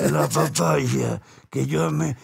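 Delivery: slow, dragged-out ranchera singer voice; a light, slowed take on a famous ranchera singer; impression of a singer. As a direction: stretch it out like an old cantina singer. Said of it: "Esa es mi voz de cantante de rancheras".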